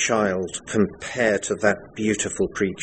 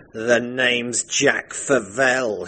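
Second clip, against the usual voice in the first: slow, drawn-out sneer; much slower than usual. Acted. Favell the bounder introduces himself to the bride, slow sneer. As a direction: introduce yourself like a cad. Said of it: "he sneered".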